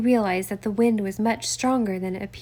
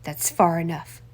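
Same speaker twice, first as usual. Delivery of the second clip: ordered; 4 semitones lower than usual. Acted. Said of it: "Winchester ordered".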